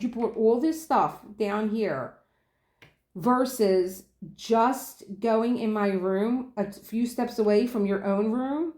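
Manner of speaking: slow, deliberate scolding. Retold or imitated. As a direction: lecture him slowly. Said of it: "I said".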